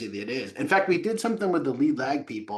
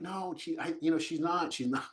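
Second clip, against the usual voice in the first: much softer, mumbled denial; mock weak denial; 4 semitones higher, 9 dB quieter than usual. Imitating the son's sheepish denial, mumbled. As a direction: play the sheepish boyfriend. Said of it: "He's like".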